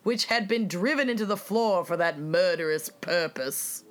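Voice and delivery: reading aloud in a mock English accent; a light English-accented newspaper read; an uppity pseudo-British accent. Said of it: "reading it in, like, an, an English accent".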